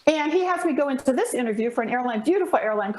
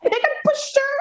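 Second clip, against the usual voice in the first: laughing aside; 12 semitones higher, 3 dB louder than usual. Real, not acted. Laughing after retold outburst.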